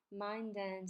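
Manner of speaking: "mind and" run together as one word; linked words. Shown as a demonstration. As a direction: link the d of "mind" straight into "and". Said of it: "mind and也连起来". (连读“mind and”)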